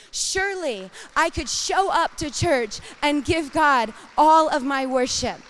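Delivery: loud, rising emphatic appeal; fervent preaching. Acted. Preacher urging her church to full worship, fervent. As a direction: press the point with conviction.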